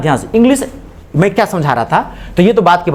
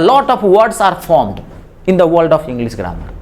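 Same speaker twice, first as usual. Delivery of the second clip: slow dictation; much slower than usual. Shown as a demonstration. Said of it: "teacher dictating an English sentence".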